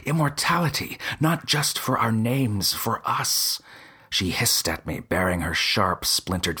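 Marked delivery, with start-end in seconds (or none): 0.0-3.6 high, eager urging; urging her, higher and excited; eager pitch. Acted. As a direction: sell the dream of immortality.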